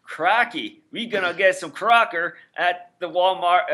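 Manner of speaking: slow mock Australian accent sliding into redneck; Australian drifting redneck. Cohost joking about Walmart snacks in a mock Australian-to-redneck accent. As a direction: start Australian and slide into a redneck drawl. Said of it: "now I'm going to redneck a little bit".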